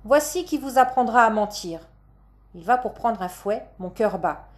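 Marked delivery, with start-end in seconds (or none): 0.0-1.9 higher, scolding stage threat; threatening stage father. Acted. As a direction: threaten the child with punishment. Father threatens her with whip. (menace de père de comédie, voix montée)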